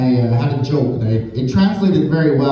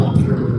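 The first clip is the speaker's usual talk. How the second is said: rolled R purr; 3 semitones lower than usual. Shown as a demonstration. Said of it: "They start to".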